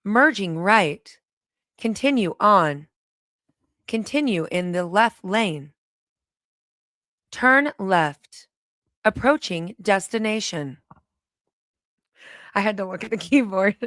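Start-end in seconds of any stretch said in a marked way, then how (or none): 0.0-10.8 GPS voice. Pretend. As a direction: call out each turn like a navigation app. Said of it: "I sound like a G P S".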